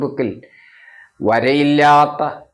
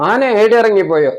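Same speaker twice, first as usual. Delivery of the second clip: surprised; 7 semitones higher, 5 dB louder than usual. Acted. Brother surprised at elephant story.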